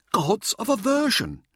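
high, slow, showboating lecturer; Mirza's voice. A narrator's reading. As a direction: relish every word like a showman. Narrator voicing Mirza.

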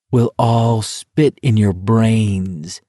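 slow, unhinged murmur; a touch of madness, very slow; crazed. Acted. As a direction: say it slowly, half-mad. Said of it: "Garrity said crazily".

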